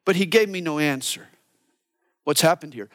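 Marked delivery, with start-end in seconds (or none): 0.0-1.3 lovesick bride. Retold or imitated. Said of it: "She says".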